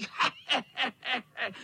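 vysoký zlomyslný smích; zlověstné chechtání. Acted. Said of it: "Chechtal se kocour". (kocour se chechtá při plížení)

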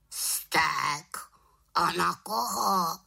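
high bird voice; questioning raven. A narrator's reading. Raven asks whom she is cross with, questioning squawk. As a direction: ask it as a curious raven.

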